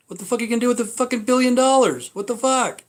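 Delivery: real exasperated shout at rich people hoarding money; exasperated outburst. Real, not acted. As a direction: throw it out in disbelief. Ranting about rich people's money.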